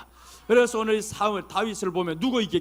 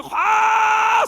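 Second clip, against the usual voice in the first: loud, high, drawn-out burst; mimicked war shout; 13 semitones higher, 9 dB louder, much slower than usual. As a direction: let the word explode into a long yell. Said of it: "소리 질렀는데".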